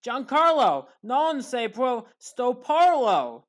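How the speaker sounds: light imitation of a radio home run call, slow drawn Italian line; mild mock radio call, stretching each word; John Sterling call. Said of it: "As John Sterling would say".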